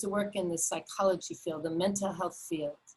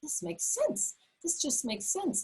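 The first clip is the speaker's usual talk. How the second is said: retold realization; 10 semitones higher than usual. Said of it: "I said".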